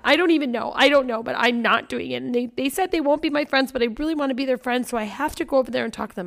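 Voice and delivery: mock the tearful girl rushing on; imitating sobbing daughter. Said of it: "And she's sobbing".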